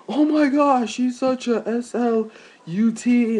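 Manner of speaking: high, slow, spelled-out gossip; mocking catty girls. Mocking the show's girls gossiping, high and slow. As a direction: sneer it like a catty girl. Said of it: "they're, like, yelling".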